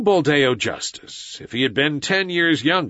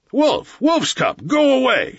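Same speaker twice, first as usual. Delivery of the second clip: high, raised cries of banishment; priest shouting; 12 semitones higher, 4 dB louder, slower than usual. A narrator's reading. Priest banishes the wolf boy, shouting. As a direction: drive him off with high, forceful cries. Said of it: "shouted the priest".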